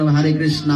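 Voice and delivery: হরে said as hare with an open a; imitating hare. Preacher mocks Bengalis saying hare. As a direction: copy the foreign hare. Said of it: "তা আমরা কেন হরে কৃষ্ণ".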